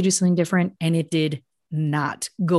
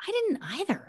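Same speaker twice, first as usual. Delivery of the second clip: a soft, softer unvoiced whisper of shared shock; 11 semitones higher, 8 dB quieter than usual. Real, not acted. Host confiding she was shocked too, whispering. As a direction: lean in and breathe it.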